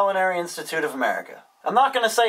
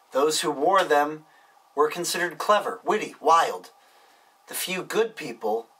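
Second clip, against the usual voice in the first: hammed-up verse reading with long pauses; mock poem reading; 3 semitones lower than usual. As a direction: recite it like deep poetry, tongue in cheek.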